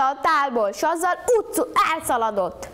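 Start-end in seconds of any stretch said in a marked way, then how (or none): none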